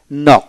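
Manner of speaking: "নক" starting straight on n; silent K. Shown as a demonstration. Teacher showing learners a silent letter, "নক" without initial K. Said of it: "এখানে কে উচ্চারিত হবে না".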